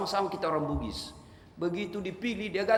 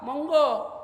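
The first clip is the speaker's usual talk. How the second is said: Javanese phrase; 8 semitones higher, 5 dB louder than usual. Shown as a demonstration. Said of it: "Bahasa Jawa".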